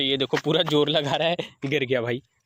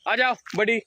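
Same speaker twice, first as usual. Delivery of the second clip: coaxing a puppy; 7 semitones higher than usual. Shown as a demonstration. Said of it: "मैं इसे बोलता था".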